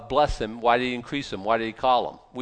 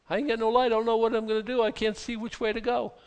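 despairing believer; 9 semitones higher, faster than usual. Pretend. Voicing a lost believer in darkness.

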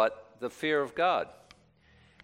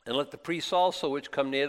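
voice of the Lord; 3 semitones higher than usual. Acted. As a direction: command the people sternly as God. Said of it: "the Lord said unto Moses".

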